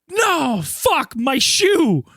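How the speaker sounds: high mock wail, falling away; imitating dismayed friend. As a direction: act out his anguish at losing it. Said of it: "And he goes".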